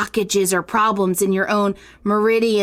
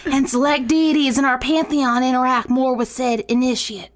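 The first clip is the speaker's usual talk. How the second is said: put-on reading in a Southern belle accent drifting Cajun; Southern belle accent sliding into Cajun priestess. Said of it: "morphed from a Southern belle to, like, a Cajun priestess".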